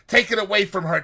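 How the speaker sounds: high, loud desperate plea; frantic plea. Retold or imitated. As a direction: beg them to seize the shroud. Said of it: "Next he cries".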